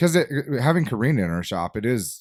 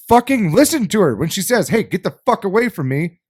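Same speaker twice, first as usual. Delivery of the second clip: higher, emphatic retold demand; indignant; 5 semitones higher, 3 dB louder than usual. Host demanding men listen to her, indignant. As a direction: insist on it, mildly heated. Indignant, voicing a woman's refusal.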